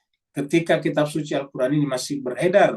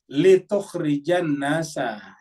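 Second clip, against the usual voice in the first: slow recitation; much slower than usual. Shown as a demonstration. Quran verse quoted.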